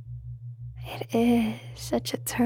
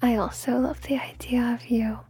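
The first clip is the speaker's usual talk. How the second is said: intimate ASMR whisper; breathy hypnotic whisper close to the mic. Acted.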